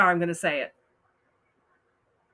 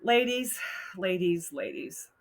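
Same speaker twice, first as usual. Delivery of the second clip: each ladies softer until whispered; fading plea; 4 dB quieter than usual. Real, not acted. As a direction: trail off pleading to the women.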